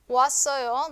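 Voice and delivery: 왔어요 with o and a merged into a single "wa"; run together as one syllable. Shown as a demonstration. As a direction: glide "wa-sso-yo", first vowels fused in 왔어요. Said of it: "no es 왔어요, sino 왔어요".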